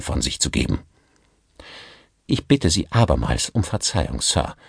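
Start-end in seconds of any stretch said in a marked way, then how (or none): 2.3-4.6 submissive. Acted. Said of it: "in unterwürfigem Ton".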